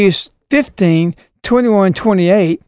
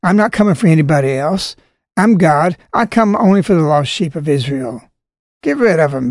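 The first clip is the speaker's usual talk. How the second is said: crude paraphrase; 3 semitones lower than usual. Retold or imitated. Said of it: "That's very crude".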